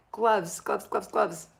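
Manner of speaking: insistent repeat. Real, not acted. Urging viewers to wear gloves.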